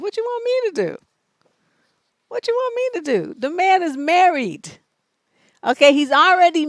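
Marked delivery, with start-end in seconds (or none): 0.0-3.3 exasperated question. Real, not acted. Host exasperated at letter writer.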